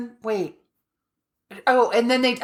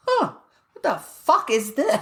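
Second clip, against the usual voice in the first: retold bafflement; 5 semitones higher than usual. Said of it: "looks at it and goes".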